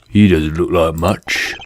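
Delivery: a hint of a tough street fox; the fox trying to sound tough; Finnick's voice. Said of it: "this is gonna be Finnick's voice from now on".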